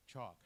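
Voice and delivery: chalk as chawk, no l; correct silent l. Shown as a demonstration. Presenter gives example of silent letter, silent l. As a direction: leave the l out of chalk. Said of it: "L is not pronounced".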